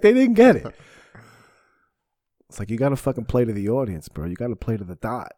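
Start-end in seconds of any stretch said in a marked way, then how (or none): 0.0-0.7 higher and louder, hammed-up insistence; mock magician insisting. A magician complaining his Hindu audience missed the joke, hammed-up and loud. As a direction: repeat it like a wounded performer. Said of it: "He's like".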